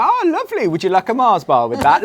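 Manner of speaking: hammed-up cheerful shop assistant; mock-cheerful shop assistant, oblivious to the customer; chirpy shop assistant. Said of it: "They go".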